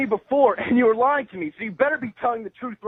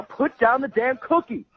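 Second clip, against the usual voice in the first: angry, slow; 3 semitones higher, slower than usual. Real, not acted. Angry customer demands.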